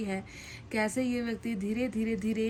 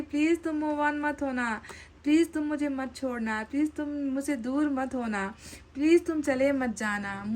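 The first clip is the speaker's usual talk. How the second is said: pleading; 3 semitones higher than usual. Acted. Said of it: "ये कह रहे हैं कि".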